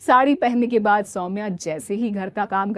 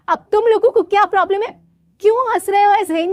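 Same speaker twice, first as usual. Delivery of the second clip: fast, higher irritated bride; annoyed demand; 11 semitones higher, 7 dB louder, faster than usual. Acted. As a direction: snap at the kids, quick. Soumya confronts laughing kids. (बच्चों पर झुँझलाकर तेज़)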